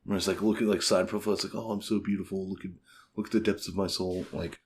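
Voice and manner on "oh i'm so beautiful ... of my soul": put-on condescending pretty boy. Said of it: "guy being condescending".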